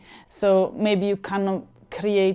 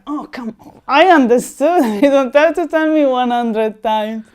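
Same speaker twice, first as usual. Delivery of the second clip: mock exasperation; 3 semitones higher, 6 dB louder than usual. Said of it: "I was like".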